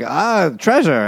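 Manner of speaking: greedy gasp. Retold or imitated. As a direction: savour the word like a cartoon miser. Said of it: "the other guy's like".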